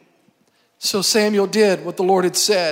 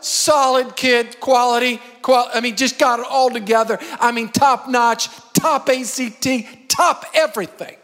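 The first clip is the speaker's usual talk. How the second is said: punchy, higher-pitched hype of a proud dad; boastful father; 3 semitones higher than usual. Acted. Father showing off his sons to the prophet, boastful. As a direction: talk up each kid with hammered emphasis. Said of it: "Jesse's putting each one of his kids up".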